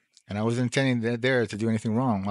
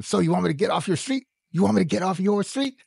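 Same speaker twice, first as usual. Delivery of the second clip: loud, higher angry retort; yelling; 7 semitones higher, 4 dB louder than usual. Retold or imitated. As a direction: shout it back at him, indignant. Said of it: "I started yelling at him".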